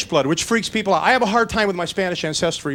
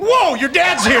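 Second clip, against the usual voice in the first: startled; 5 semitones higher, slower than usual. Retold or imitated. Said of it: "I'm going".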